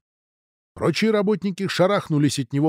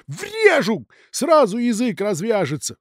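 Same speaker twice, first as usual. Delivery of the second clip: eager angry plea; 9 semitones higher than usual. Acted. Dudin begs to hit manager.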